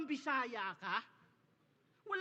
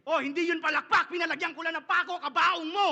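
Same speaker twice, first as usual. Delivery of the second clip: yelled punchline; 3 semitones higher, 9 dB louder than usual. Acted. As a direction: hit the closer with a full yell. Rap punchline climax yelled. (sigaw sa punchline)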